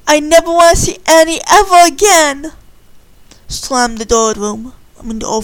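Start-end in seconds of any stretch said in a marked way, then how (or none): 0.1-2.5 angry. Acted. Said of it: "Candy was pissed off".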